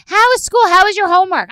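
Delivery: high, loud sing-out questions; mock dutiful questioning. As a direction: mockingly ask like a dutiful parent. Mocks questions she never asks.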